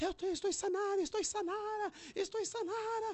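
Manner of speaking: very high woman's crying out.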